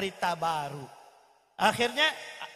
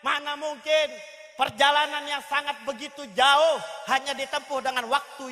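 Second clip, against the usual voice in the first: raised, higher-pitched protest; incredulous cry; 3 semitones higher, 4 dB louder than usual. Acted. Disbelieving crowd reacts to the overnight journey, crying out. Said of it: "Pada teriak".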